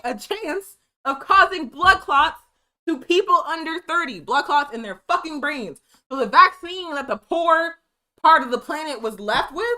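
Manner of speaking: rising, heated anger; angry rant. Real, not acted. Ranting to viewers about the vaccine, angry. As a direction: let the outrage build. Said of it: "Can you tell I'm mad?".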